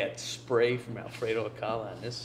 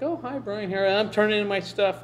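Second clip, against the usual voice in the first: imitating Sandra; 10 semitones higher, 3 dB louder than usual. Retelling Sandra's answer.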